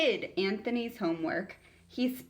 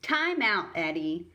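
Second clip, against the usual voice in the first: firm, louder call of time out; ruffled teacher; 4 dB louder than usual. Acted. Teacher sending the bully to time out, firm and loud. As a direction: put the boy in time out sternly.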